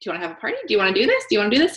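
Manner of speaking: loud, eager pitch to guests; eager hostess. Retold or imitated. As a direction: call out eagerly, selling it. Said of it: "your host is walking around being like".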